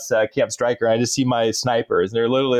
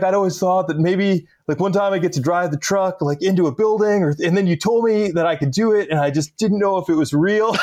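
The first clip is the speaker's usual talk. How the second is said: lightly mimicked nerd, pitched up; Napoleon Dynamite; 5 semitones higher than usual. Driver explaining the delay to his officer, lightly imitated nerd voice. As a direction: ramble an awkward nerd's excuse, gently imitated. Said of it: "the Napoleon Dynamite".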